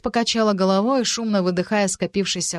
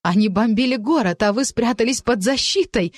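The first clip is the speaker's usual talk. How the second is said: losing her temper; 4 semitones higher, 4 dB louder than usual. Acted. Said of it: "не выдержала Францезелин".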